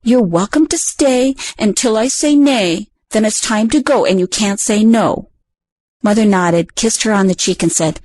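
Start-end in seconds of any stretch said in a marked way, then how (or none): 0.0-5.3 purring critter. Acted. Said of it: "Carrot purr and say".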